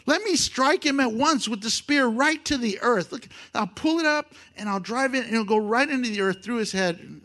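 a lightly voiced Abishai bragging to David. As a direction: brag about the easy kill. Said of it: "He's bragging".

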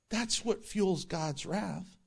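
slow, halting dramatic delivery; Captain Kirk. Real, not acted. Preacher explains God's wrath, accidentally Kirk-like and halting. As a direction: stretch it out in halting phrases. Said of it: "Sorry to sound like Captain Kirk".

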